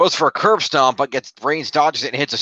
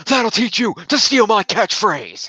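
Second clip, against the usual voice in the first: higher, drawn-out attempt at an Irish accent; bad Irish accent; 7 semitones higher, slower than usual. Imagined wrestler gloating over a stolen catchphrase, bad Irish accent. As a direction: botch an Irish accent in slow mock gloating. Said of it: "how to do an Irish accent".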